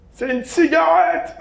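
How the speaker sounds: hammed-up drunk regular stating the obvious; bar regular.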